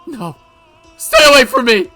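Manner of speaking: high whimper into loud scream; terrified. Acted. Mion hearing the slasher confess, terrified. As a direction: shriek to keep someone back.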